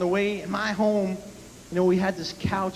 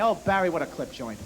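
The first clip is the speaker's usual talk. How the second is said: higher, kvetching father voice, climbing higher; dad warning son about the free bread; imitating grumbling dad; 6 semitones higher than usual. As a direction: complain about the restaurant like a swindle. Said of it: "there's no pleasing dad".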